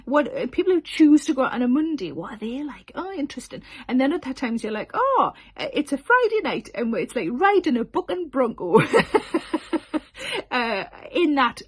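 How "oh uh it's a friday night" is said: higher, thrilled exclamation; excited Friday crowd. Retold or imitated. Comic greeting a rowdy Friday audience, higher and thrilled. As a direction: gasp it out like the crowd is wild.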